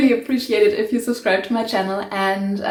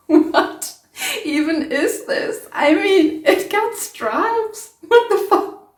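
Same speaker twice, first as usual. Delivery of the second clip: high, stunned laughing disbelief; shocked disbelief; 8 semitones higher, slower than usual. Real, not acted. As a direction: gasp at the ruined fabric. Reacting to the striped dye result.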